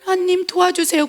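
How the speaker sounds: high, lightly voiced cry for help; plea for help. Preacher voicing a believer crying to God for help, high mild plea. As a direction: call out to God for rescue.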